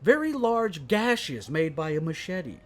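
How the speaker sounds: lightly put-on true-crime documentary narration; mock crime-show narrator. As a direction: read it like a cold case file. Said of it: "cold case files".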